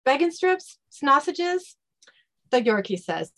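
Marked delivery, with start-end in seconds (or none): 0.0-1.8 higher-pitched testy questions; exasperated haggling. Acted. Dean asking the Yorkie its price, exasperated. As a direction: fire off offers, voice pitched up.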